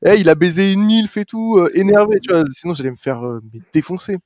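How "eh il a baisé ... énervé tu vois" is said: gossiping colleague. Retold or imitated. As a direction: tell the boss like a snitch. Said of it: "mon collègue qui aille dire au patron".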